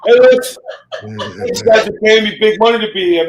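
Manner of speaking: talking through real laughter; can't keep a straight face mid-roast; laughing. Real, not acted. Host cracks up mid-roast.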